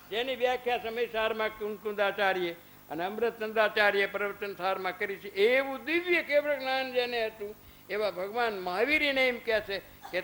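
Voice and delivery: usual speaking voice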